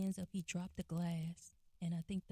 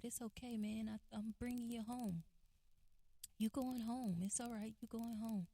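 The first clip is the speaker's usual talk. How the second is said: softer, higher, gentle comforting voice; quietly reassuring officer, retold; 5 semitones higher, 4 dB quieter than usual. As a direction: soothe someone upset, lightly imitated. Officer comforting her crying brother.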